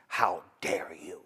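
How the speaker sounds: slow, low and soft in outrage; low angry whisper. Retold or imitated. Reporter confronting Candace, low indignant whisper.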